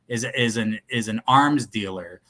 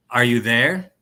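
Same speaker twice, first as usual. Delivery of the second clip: louder questioning character voice; 7 dB louder than usual. Acted. Reader trying a voice for green phone, louder questioning character voice. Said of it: "I gotta use different voices".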